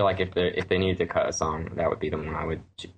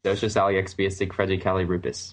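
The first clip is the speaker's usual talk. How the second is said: backwards speech. Shown as a demonstration. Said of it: "I can say it like they say it in the movie backwards".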